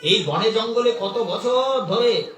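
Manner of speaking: acted wifely astonishment, rising in pitch; amazed. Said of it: "অবাক হয়ে বললেন".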